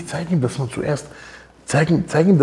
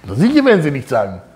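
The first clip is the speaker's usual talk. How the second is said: loud demo blessing; 2 semitones higher, 6 dB louder than usual. Retold or imitated. Rav demonstrating loud bracha.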